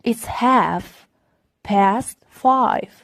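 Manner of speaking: "half" said as "haf", L dropped; "half" with the L left silent. Shown as a demonstration. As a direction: say "half" without the L. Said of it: "ال L هنا silent".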